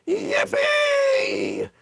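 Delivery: very high, wild yell. A narrator's reading. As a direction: explode with joy. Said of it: "he threw up his arms and yelled".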